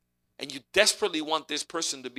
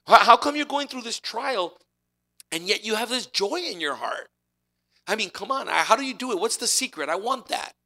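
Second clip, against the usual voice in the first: higher and louder, pleading eagerness; eager seeker; 4 semitones higher, 4 dB louder than usual. Retold or imitated. Preacher voices a seeker drawn to Joshua's joy, eager. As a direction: beg to know the secret. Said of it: "gonna look at this Joshua's life and say".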